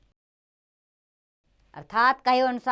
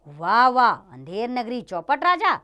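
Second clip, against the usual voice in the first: delighted exclamation; 2 semitones higher, 6 dB louder than usual. Acted. Disciple marvels at the city.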